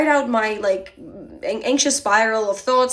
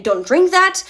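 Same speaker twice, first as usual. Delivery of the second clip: higher, louder urgent warning; 7 semitones higher, 6 dB louder than usual. Retold or imitated. Monica warning her about the coffee, urgent. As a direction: stop her before she drinks. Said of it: "She's saying".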